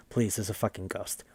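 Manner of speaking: soft, quick-fading mock plea; hushed plea. Swimming girl telling everyone about the ghost, hushed pleading. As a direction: drop to a near whisper, retold.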